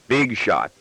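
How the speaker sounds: understated sarcasm in a father's voice; a mild, dry jibe; sarcastic. Acted. Father needling his cheeky son, lightly sarcastic. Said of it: "I tell him sarcastically".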